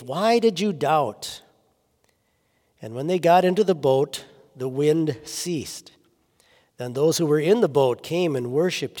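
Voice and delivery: measured, solemn Bible reading with pauses; scripture reading. A narrator's reading. Pastor reading the Gospel to the congregation, measured scripture reading. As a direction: read it out clearly, phrase by phrase.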